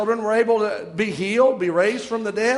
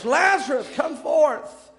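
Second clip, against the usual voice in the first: high, raised preacher's call; loud cry; 6 semitones higher, slower than usual. Retold or imitated. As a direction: imitate a commanding cry to raise the dead. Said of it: "he cried with a loud voice".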